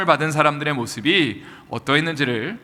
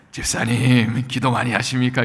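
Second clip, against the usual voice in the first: put-on solemn, devout, holy church voice; 4 semitones lower than usual. Joking about how voices change when people are spirit-filled: put-on holy-sounding voice. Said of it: "신령하게 ... 이렇게 목소리가 변하고".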